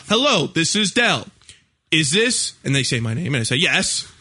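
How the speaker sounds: lightly voiced robotic recording, slow; mock automated message; imitating automated call. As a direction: read it like a canned phone message. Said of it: "automated call".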